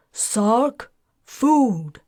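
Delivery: loud bellow through the door. Acted. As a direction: call out loudly for the servant. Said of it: "and she went to the door and bellowed".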